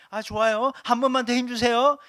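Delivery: loud, high coaxing push-now call; urging doctor. Retold or imitated. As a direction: cheer on a woman in labor. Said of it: "산부인과 의사들이".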